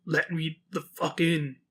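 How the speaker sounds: slow, halting, soft creature voice with odd tone; goat man voice. Retold or imitated. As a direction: drag each word out like an animal trying to talk. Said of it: "she keeps saying".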